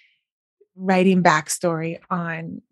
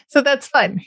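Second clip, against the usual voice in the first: smiling voice; 6 semitones higher than usual. Real, not acted. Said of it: "You hear the smile in my voice".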